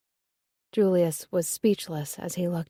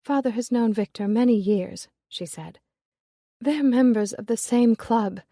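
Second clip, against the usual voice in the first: a lightly raised, resentful daughter; Lillian, bitter; 2 semitones higher, 4 dB louder than usual. Acted. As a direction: state her father's stubbornness plainly. Lillian voiced higher.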